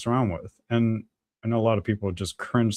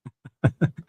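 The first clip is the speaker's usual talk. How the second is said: short, high chuckle; wordless chuckle at his own remark; brief burst of laughter; 3 semitones higher than usual. Real, not acted.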